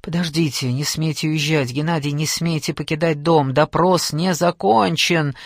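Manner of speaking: usual speaking voice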